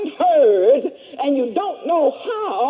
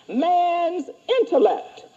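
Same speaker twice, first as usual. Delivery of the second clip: dictating; 2 semitones higher than usual. Shown as a demonstration. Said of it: "Right under conscious".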